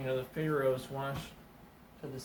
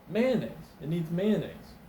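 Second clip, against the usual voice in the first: higher, louder snap decision; instant answer; 4 semitones higher, 6 dB louder than usual. Acted. Bearded man answers the cook at once, higher and louder. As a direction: blurt it out like a revelation. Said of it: "the guy goes, instantly".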